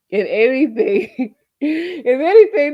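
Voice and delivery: high laughing repeat of if anything; laughing through it. Real, not acted. To viewers, laughing while making the point.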